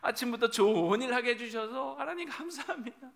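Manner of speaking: loud, laughing delight at a good deed; joyful. Acted. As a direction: beam with cheerful gratitude. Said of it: "기뻐하는 거죠".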